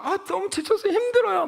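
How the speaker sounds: tired churchgoer complains to God, hammed-up whine; mock whining. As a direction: whimper out the complaint.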